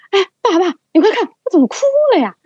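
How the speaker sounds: high, loud crying plea, half laughing; tearful and bewildered, calling dad to look; teary call to dad. Retold or imitated.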